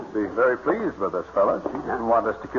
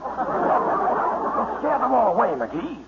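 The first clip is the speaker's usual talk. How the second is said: excited; 12 semitones higher, much slower than usual. Acted. Excited hunter, ducks nearby.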